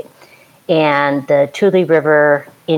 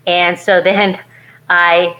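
usual speaking voice

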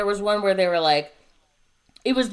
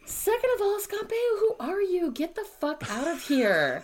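scornful dismissal; 11 semitones higher, 3 dB quieter than usual. Real, not acted. Ranting, dismissing Scott Baio.

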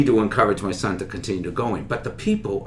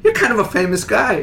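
high, louder Boston cop; impressed trooper; 11 semitones higher, 5 dB louder than usual. Retold or imitated. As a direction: play the starstruck trooper. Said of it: "he goes".

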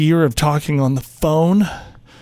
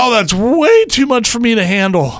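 higher, agitated put-on panic; hammed-up flustered protest; mock overwhelm; 7 semitones higher, 4 dB louder, slower than usual. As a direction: plead as if it is all too much, then drag the last words. Prank: acting overwhelmed by caller.

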